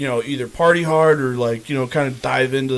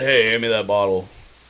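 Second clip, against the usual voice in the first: voice dropped deep and low; 3 semitones lower than usual. Recalling asking someone for a bottle when it came out deep. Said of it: "Like it came deep".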